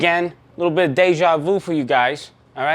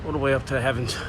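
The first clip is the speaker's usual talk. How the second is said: winded after the climb; puffing after the stairs; out of breath; 5 dB quieter, faster than usual. Real, not acted. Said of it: "I'm out of breath".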